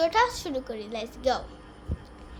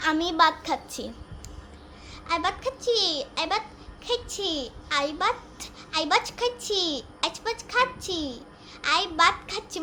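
put-on Old Dhaka dialect. Shown as a demonstration. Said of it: "পুরান ঢাকাইয়া".

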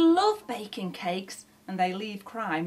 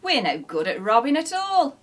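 sighing; 5 semitones higher, 7 dB louder than usual. A narrator's reading. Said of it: "Shifty sighed".

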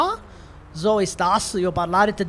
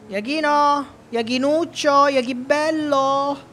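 coaxing call; 4 semitones higher, slower than usual. Real, not acted. Coaxing the dog Iachino.

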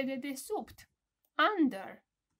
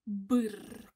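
shivering brr; 2 semitones lower, 3 dB louder than usual. Shown as a demonstration. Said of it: "Cold. Brr".

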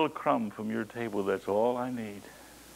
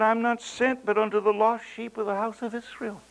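preached; 9 semitones higher than usual. Acted. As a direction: proclaim it from the pulpit. Preached reading, later plain reread.

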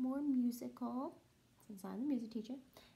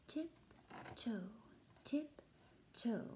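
hushed whisper; whispered tiptoe; 6 dB quieter, much slower than usual. Acted. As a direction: whisper like sneaking past. Tiptoeing into the cave.

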